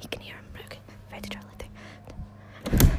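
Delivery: hushed countdown whisper before the scare; giggly prank whisper. Real, not acted. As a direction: whisper the countdown, ready to pounce. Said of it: "go scare him".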